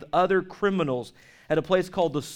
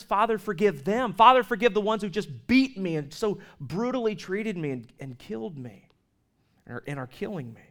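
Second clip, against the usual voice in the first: anguished plea; 3 semitones higher than usual. Retold or imitated. Jesus's plea from the cross.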